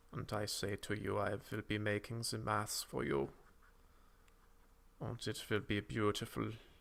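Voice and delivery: put-on German accent, boastful tone. Playing a persona described to the audience, the speaker talks in a German accent. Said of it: "And I have a German accent".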